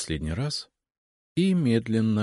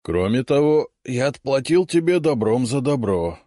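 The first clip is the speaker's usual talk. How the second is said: raised, louder creature voice; a proud magical beast answering; guardian head voice; 7 semitones higher, 6 dB louder than usual. A narrator's reading. Right head of guardian speaks.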